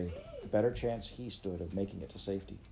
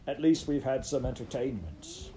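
high-pitched laughter; 5 semitones higher than usual. Acted. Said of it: "amid high-pitched laughter".

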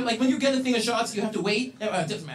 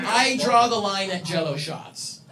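ordinary talk, nothing marked

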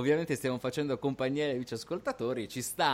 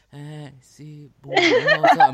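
imitating enthusiasm; 3 semitones higher, 11 dB louder, slower than usual. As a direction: copy her over-the-top hello, laughing. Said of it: "quanto entusiasmo".

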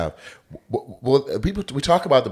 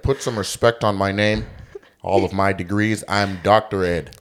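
mock proud doctor. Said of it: "I just hear that".

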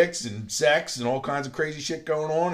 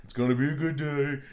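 mirror self-pep-talk; 3 semitones higher, 4 dB louder than usual. Retold or imitated. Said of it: "what I say to myself in the mirror".

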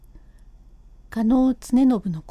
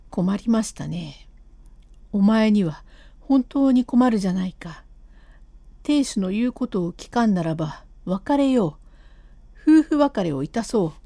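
put-on lightly lowered voice of an old husband, apologetic; a guilty husband coaxing his wife to go home; husband's voice; 2 semitones lower than usual. Husband pleading with his wife to leave, lightly lowered voice.

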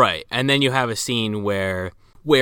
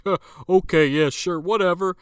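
higher-pitched scoffing brush-off; mock dismissive; 7 semitones higher than usual. Retold cops humoring a detective, mock dismissive. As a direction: brush them off, openly doubting.

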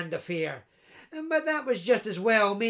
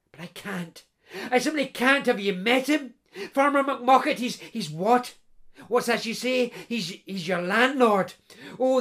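put-on a young bride, a touch louder, fretful; a hint of a distressed runaway bride; lightly voiced bride Katrina; 3 semitones higher, 4 dB louder than usual. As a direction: complain about the groom, half amused. Voicing Katrina at length.

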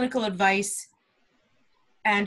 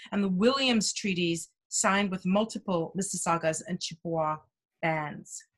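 measured official reading; formal land acknowledgement. Acted. Podcast host reading the Toronto land acknowledgement, formal tone. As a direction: read it like a formal civic statement.

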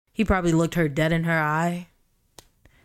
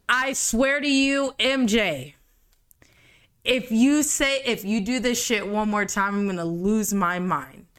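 exasperated; 3 semitones higher than usual. Real, not acted. Angry at author M J.

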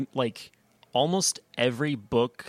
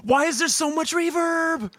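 surprised; 4 dB louder than usual. Real, not acted. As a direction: caught off guard by the sound. Hearing unexpected reverb on clip.

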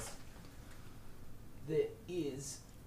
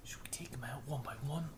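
whispering; 6 dB quieter than usual. Real, not acted. Players plotting quietly.

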